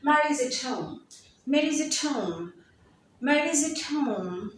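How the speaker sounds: "Mary's at home" with "at" weakened to ət; contracted Mary's. Shown as a demonstration. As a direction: glide "Mary's at" together. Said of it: "like I did over here".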